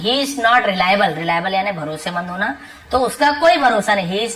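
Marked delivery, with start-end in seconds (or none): 0.0-1.2 each word said slowly and clearly for learners; slow model sentence. Shown as a demonstration. Teacher slowly models the sentence for Hindi learners. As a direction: spell it out slowly so students can copy. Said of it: "teacher models the sentence slowly".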